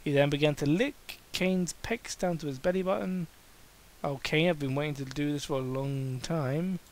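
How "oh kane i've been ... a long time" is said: breathless. Acted. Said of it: "he said breathlessly".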